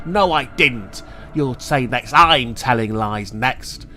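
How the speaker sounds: angry. Acted. Angry landlady accuses boy.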